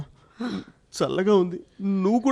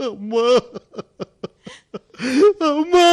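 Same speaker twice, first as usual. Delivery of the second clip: crying out. Acted. Son cries out for dead mother.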